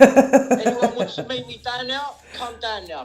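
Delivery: loud, slow challenge to anyone listening; defiant shout. Real, not acted. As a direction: call them out, loud and slow. Challenging enemies on stream.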